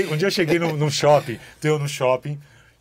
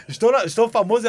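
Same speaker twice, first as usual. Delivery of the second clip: mock excitement; 6 semitones higher, 7 dB louder than usual.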